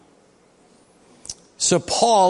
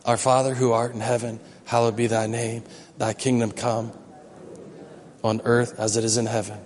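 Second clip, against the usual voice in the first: prayer recitation; 7 semitones lower, 6 dB quieter than usual. Shown as a demonstration. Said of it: "We'll say it".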